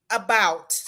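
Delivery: exaggerated Canadian "About" said like "aboot"; a clumsy mock Canadian "About"; bad Canadian impression. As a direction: overdo the Canadian vowel. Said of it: "my extreme bad ... impersonation of a Canadian accent".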